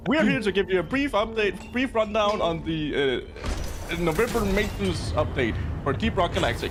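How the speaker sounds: trailer intro read. Retold or imitated. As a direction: recite it like a dev update trailer. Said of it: "do you think we can remember the lines".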